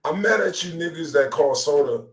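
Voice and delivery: normal talking voice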